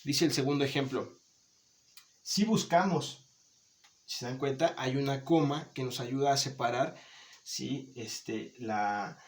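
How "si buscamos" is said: "Si" punched high and drawn out, falling through "buscamos"; stress on SÍ. Shown as a demonstration. Teacher reading the second example to the class, stressed SÍ. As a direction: hit "Si" high as an emphatic yes, slowly. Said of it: "Cambia la entonación".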